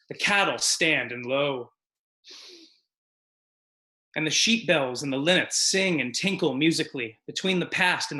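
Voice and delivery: dramatic poem reading. Acted. Comedian reciting a solemn poem to the audience. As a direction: read it like grave poetry.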